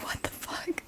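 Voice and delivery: whispered, retold bewilderment; hushed disbelief. Waking to a crab in the face, hushed disbelief. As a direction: whisper it as a stunned thought. Retells shock at seeing crab.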